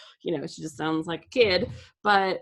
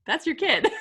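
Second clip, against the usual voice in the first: higher and louder, laughing through it; laughing disbelief; 8 semitones higher, 6 dB louder than usual. Retold or imitated. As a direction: tease a parent, giggling. Marvelling at accented child.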